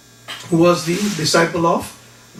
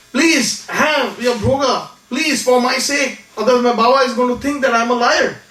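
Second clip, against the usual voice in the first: imitated tearful plea; 5 semitones higher than usual. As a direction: beg like an upset child, no sobs. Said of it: "Again he starts crying".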